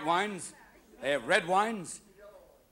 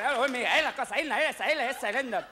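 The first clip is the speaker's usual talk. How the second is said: Spanish fumbling; 5 semitones higher, faster than usual. Acted. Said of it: "What are you gonna say?".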